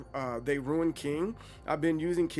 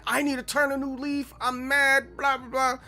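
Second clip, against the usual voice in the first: mock mad rant; 9 semitones higher, 4 dB louder than usual. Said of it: "but I was like".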